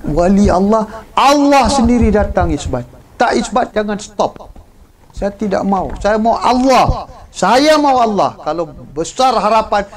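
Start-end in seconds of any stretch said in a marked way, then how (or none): 5.1-8.3 louder, slower, higher as it builds; a seeker crying out for God, building loud and slow; fervent plea. Acted. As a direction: beg with growing longing.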